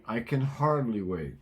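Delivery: "hardly" leaned on firmly; "hardly" pressed as the key word; stress on hardly. Shown as a demonstration. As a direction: lean on "hardly" in "I can hardly wait". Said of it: "You should be saying".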